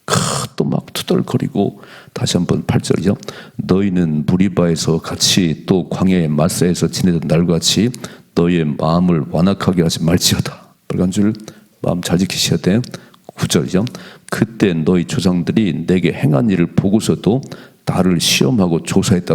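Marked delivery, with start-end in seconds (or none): 3.6-10.7 scripture reading. Acted. Pastor rereads the verse. 14.3-19.3 scripture reading. Acted. Pastor reads verse nine.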